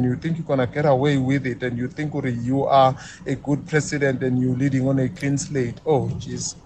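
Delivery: low, weary sigh of frustration; worn down and a little desperate, voice sinking; exhausted. Real, not acted. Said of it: "Thulani sounding exhausted, sounding, uh, even a little bit desperate".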